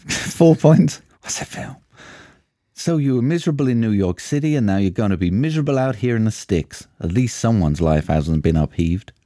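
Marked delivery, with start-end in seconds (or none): 1.2-1.8 whispered question. Acted. Quiz clue whispered. 2.7-9.1 man doing a woman's voice. Retold or imitated. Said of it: "supposed to be a girl's voice".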